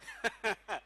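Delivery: brief real chuckle; a quick laugh at your own joke; short chuckle. Real, not acted. Preacher joking about translating into Tswana, short chuckle.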